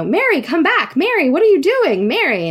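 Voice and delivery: high-pitched mock yell, little added volume; retold yelling. Baffled driver calling Mary back from the cemetery, imitated high-pitched yell. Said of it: "He's yelling".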